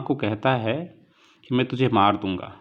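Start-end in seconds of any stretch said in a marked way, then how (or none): 1.6-2.5 mock angry yell of a sulking child; mild retold shout at mother. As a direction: act out the boy's threat, a bit heated. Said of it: "बहुत ज़ोर से चिल्लाता है".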